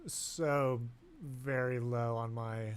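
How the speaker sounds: slow, drifting stoned speech. Real, not acted. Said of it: "Sorry, I'm fucking stoned".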